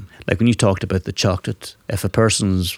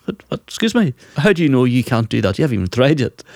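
higher-pitched, incredulous pushback; challenging parent; 5 semitones higher than usual. Retold or imitated. Father answering boys who say they can't, challenging. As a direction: challenge the kid's self-doubt.

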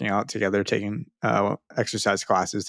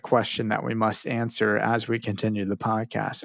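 hammy stage actor. Acted. Hamlet parody on the podcast.

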